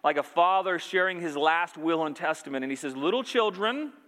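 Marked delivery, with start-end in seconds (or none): 3.0-3.9 raised pitch on a tender address; lovingly voiced, higher and lilting upward. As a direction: call to them like an affectionate father. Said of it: "very lovingly, very tenderly".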